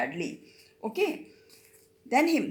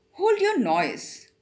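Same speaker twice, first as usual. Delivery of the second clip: harsh, high, menacing whisper; terrible voice; 8 semitones higher, 4 dB louder, slower than usual. Acted. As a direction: hiss it like a convict springing out. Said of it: "cried a terrible voice".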